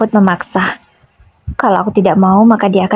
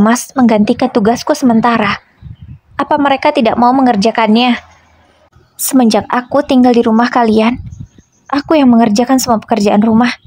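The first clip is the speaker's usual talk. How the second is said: pleading protest, pitched higher throughout; upset protest; 3 semitones higher than usual. Acted. Wife pouring out grievances to husband, mildly acted upset protest. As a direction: push back, hurt and indignant.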